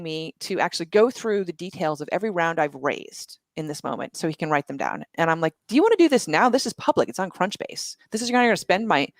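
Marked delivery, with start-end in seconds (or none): 5.7-9.1 higher-pitched retold protest; incredulous objection. Founder retells objecting to investor's demand, incredulous. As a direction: push back in mild disbelief.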